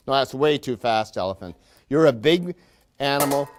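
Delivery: a lightly hammed-up, cheery manager lecturing his workers; mock factory boss. Factory manager greeting his willing workers, lightly hammed-up boss voice. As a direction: play the upbeat boss who patronises the staff. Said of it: "I might supply some of the dialogue".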